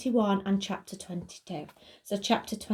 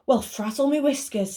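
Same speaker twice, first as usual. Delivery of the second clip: higher, lively storybook voice; Fidget character voice; 6 semitones higher than usual. Acted. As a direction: exclaim it like a fussy old creature.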